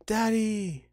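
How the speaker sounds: high, loud, drawn-out call; child calling out. Acted. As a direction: cry out after a departing father as a child. Child in game cries out.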